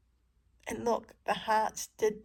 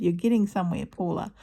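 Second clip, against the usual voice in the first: loud encouragement to herself; loudly praising herself by name; loud self-praise; 8 dB louder, faster than usual. Retold or imitated. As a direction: cheer yourself on by name. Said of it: "and I go".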